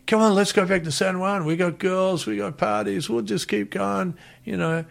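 lightly voiced local tough guy urging; gang members' invite. Voicing the gang inviting him.

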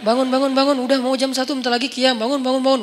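quick repeated rousing of friends; busily faked urging to get up; pretend wake-up call. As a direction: imitate stalling by nudging sleepers awake. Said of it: "Pura-pura ngebangunin teman, padahal nggak berani turun".

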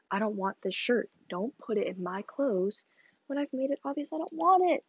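annoyed rant, rising on want; frustrated rant. Real, not acted. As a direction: vent at the sister's clothes. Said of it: "that was me ranting again".

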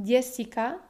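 Jessica with the first syllable strong, JE-ssi-ca; stress on antepenultimate syllable. Shown as a demonstration. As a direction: lean on the JE of Jessica. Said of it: "es en la antepenúltima".

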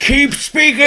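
high, loud villainess cry; Ursula. Acted. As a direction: command it like a sea witch, high and loud. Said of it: "I wanna be Ursula".

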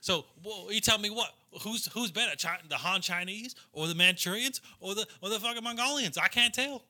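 high, indignant Southern redneck rant; Southern accent. Acted. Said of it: "remember my fucking Southern accent".

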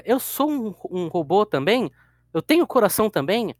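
lightly voiced innocent robot girl; naive robot girl. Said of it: "aí a Pino chega". (robôzinha ingênua)

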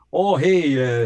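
quick Pennsylvania greeting demo; Pennsylvania accent. Shown as a demonstration. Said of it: "Pennsylvania, you know, like".

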